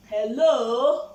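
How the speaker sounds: loud Hello, calling for attention; loud attention-grabbing hello. Real, not acted. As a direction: call out to wake the listeners up. Calling out to the audience.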